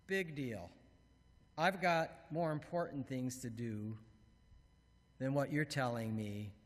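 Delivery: dismissive. Acted. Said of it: "our voice says".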